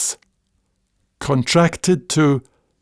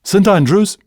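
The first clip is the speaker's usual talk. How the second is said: louder, higher punchline in Scots; Scotsman punchline; 6 semitones higher, 4 dB louder than usual. Retold or imitated. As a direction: deliver the punchline proudly in Scots. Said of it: "the Scotsman says".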